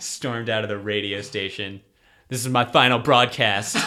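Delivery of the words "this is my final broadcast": mock dramatic. Mock dramatic exit line.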